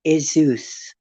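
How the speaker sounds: Isus said IH-zus, short I, falling; old spelling Isus. Shown as a demonstration. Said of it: "spelled with an I".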